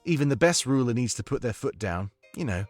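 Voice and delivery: put-on approving British-accented adviser; Domik's comforting accent. Domik advises the new monarch on firm rule, British accent. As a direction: counsel in a measured British accent. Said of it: "I need your comforting accent right now".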